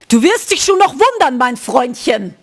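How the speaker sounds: menacing mimicry, pitch falling away; imitated threat. Retelling the customer's threat to Marcel, imitated menace. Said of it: "The energy".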